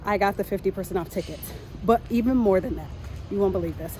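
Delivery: breathless from rushing home; panting a little while walking fast; out of breath. Real, not acted. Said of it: "I'm running out of breath".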